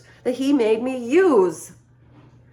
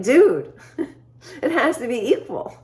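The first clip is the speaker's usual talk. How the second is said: laughing protest; 5 semitones higher than usual. Retold or imitated. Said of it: "I was like".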